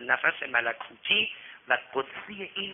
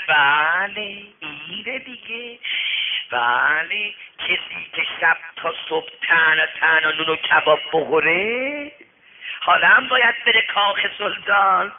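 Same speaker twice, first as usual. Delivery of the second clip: lightly acted mocking jibes; knowing, teasing mockery; seminary taunt; 2 semitones higher, 4 dB louder than usual. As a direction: needle him like gossiping students. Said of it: "متلک آخوندی بشنوی".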